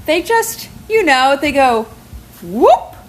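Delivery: lightly acted stalling, in halting bits; flustered babysitter. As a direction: imitate someone dodging an awkward question. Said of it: "big eyes, and she looks at me".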